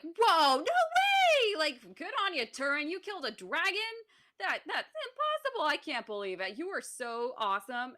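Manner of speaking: high, gushing mock amazement; excited elves. Elves gushing over Turin's dragon kill, high excited voices. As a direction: gush over the hero like starstruck fans. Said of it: "the other elves are like".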